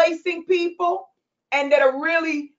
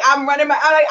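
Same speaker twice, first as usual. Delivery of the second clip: ordinary delivery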